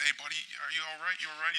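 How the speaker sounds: soft, caring dad checking on his son; dad softly comforting his crying son; gentle concern. Retold or imitated. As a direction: quietly reassure a hurt kid.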